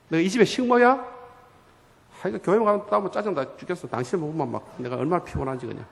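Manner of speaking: acted weary nagging; fed-up wife. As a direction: grumble at the husband, mildly angry. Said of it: "막 화를 내고".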